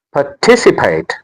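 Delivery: "Participate" with TIS standing out; stress on second syllable. Shown as a demonstration. Teacher showing where the stress is on, "Participate" stressed par-TIS-ipate. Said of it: "The stress is on".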